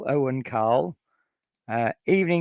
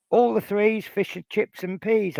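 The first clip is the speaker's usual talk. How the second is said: sing-song bingo number call, pitched up; bingo caller; 6 semitones higher than usual. Pretend. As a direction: call it like a bingo hall host.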